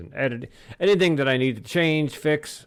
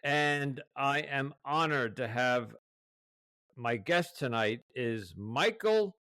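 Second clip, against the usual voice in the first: podcast host introduction; 7 dB quieter than usual. Real, not acted. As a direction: welcome listeners formally, stretching the title and names. Reads the podcast's opening introduction.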